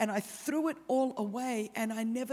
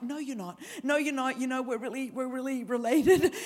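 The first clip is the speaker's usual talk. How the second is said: defensive. Retold or imitated. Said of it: "I got really defensive".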